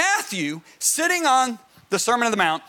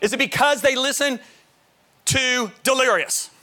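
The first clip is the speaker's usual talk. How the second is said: raised pitch, insistent questioning; dad quizzing sons; 4 semitones higher than usual. Retold or imitated. Father drilling his sons at night, insistent. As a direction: quiz the boys like a broken record. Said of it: "look at my sons almost every night and say".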